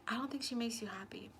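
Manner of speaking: soft unvoiced secret; confiding whisper. Telling him in a whisper she doesn't make him happy. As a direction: whisper it like a confession.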